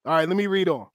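ordinary talk

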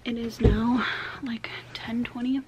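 speaking around whitening strips; talking with whitening strips. Real, not acted. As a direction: mouth full of whitening strips. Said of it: "I'm talking funny 'cause I have my whitening strips in".

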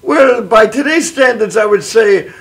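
measured stage Irish lilt; Irish accent. Acted. Gambling leprechaun estimates his losses, in Irish accent. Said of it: "I can do an Irish voice".

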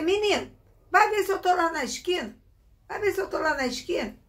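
put-on a mother waving away a pestering child; mother brushing off child.

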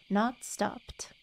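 whispered, gently setting it straight; soft correction. Acted. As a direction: breathe the words out softly. Reading a character's gentle correction.

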